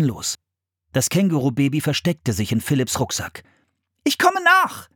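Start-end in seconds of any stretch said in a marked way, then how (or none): 4.0-4.9 very high-pitched call. A narrator's reading. Anne telling her brother she will follow, calling out. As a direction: call it out to someone leaving. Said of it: "rief Anne".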